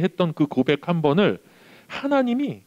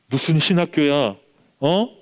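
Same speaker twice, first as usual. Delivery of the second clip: mother's retold yell; 3 semitones higher than usual. Mother to son wanting seminary, mild mock yell. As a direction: imitate a mother scolding her son, half-hearted. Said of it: "그러면서 소리를 쳤어요".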